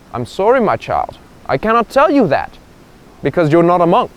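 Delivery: solemn monk refusing; very serious. Acted. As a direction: refuse gravely, in measured phrases. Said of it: "the monk turns very serious".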